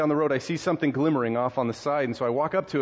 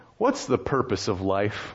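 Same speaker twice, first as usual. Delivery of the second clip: mock sarcasm, imitated, pitched lower; 4 semitones lower than usual. Retelling a student's question to the professor, mock-sarcastic question. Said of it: "one kid kind of sarcastically raised his hand".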